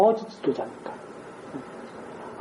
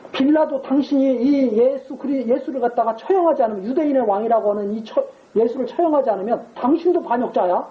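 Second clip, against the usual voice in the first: mock angry accusation; 4 semitones higher than usual. Priests to Pilate about Jesus, a mock furious accusation. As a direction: lean on Pilate with a hammed-up threat. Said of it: "막 그러잖아요".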